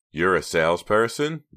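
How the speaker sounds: taken-aback query; surprised. A narrator's reading.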